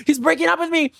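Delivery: high, tearful panicked whine; mock wail. Storyteller being left by his boyfriend, high mock wail. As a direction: wail it like a melodramatic breakup.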